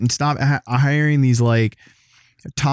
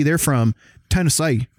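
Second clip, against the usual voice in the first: overdone Southern "Tennessee", ending "-say"; mock Southern twang. Mimicking how Southerners name their state, "Tennessee" in a Southern twang. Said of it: "overdo the twang like people do".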